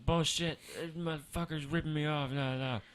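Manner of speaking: mock-indignant grumbling; huffing and puffing. Retelling the irate customer at the counter, mock-angry. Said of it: "huffing and puffing".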